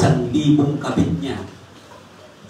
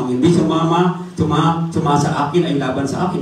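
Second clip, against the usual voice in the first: the Lord's words; 4 semitones higher than usual. Retold or imitated. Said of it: "sabi ng Panginoon Diyos".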